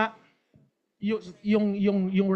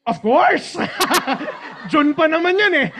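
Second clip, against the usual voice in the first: laughing, loud overconfident yes; retelling a carefree, laughing answer; laughing reply; 5 semitones higher, 4 dB louder than usual. Retold or imitated. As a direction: brush it off with a laugh.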